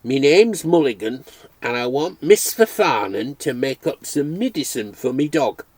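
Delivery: lightly voiced Irish brogue; gentle hint of an Irish accent; rich Irish accent. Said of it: "spoke with a rich, unexpected accent".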